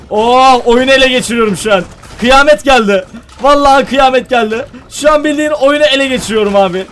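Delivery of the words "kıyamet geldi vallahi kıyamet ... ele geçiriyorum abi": ordinary talk, nothing marked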